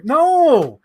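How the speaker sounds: high, loud, emphatic no; loud refusal. Real, not acted. Refusing a horror film, loud and high. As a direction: shout it down firmly.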